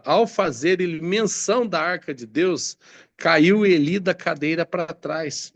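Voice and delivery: measured verse read aloud; scripture reading. Acted. Preacher reads of Eli's fall, deliberate scripture reading. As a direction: read the Bible account out to listeners.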